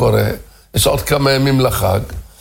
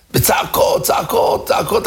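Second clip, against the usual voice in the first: narrated screaming; 6 semitones higher than usual. A narrator's reading. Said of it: "התחילה לצרוח צרחות".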